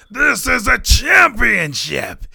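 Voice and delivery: slow booming ring announcer call, drawn out. Retold or imitated. Mimicking the ring announcer, slow and booming. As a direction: boom it like Mike Rome announcing the bout.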